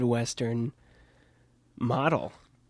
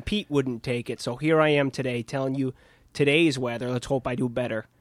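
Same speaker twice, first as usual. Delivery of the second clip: put-on Minnesotan accent. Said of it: "a weatherman with a Minnesotan accent".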